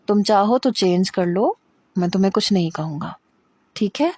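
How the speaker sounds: gentle, loving promise; tender reassurance. Acted. Armaghan reassures frightened Hira, tender and gentle. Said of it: "بڑی محبت سے اور لگاوٹ سے اور پیار سے".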